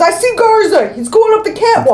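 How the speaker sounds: a hint of a cop calling to his partner; quoting Nick. Retelling the movie to friends, lightly acted call-out. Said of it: "Nick spots Garza and says".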